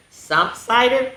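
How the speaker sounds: slow high disbelieving "cider?"; surprised. A narrator's reading. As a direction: gasp out the question in mock disbelief. Reader feigns surprise at the food.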